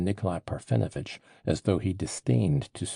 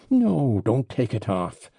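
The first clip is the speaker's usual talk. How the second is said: higher, louder sudden No, then settling; a touch of furious outburst; furious cry; 4 semitones higher, 7 dB louder, slower than usual. A narrator's reading. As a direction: snap it out, angry at himself. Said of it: "cried Mitya furiously".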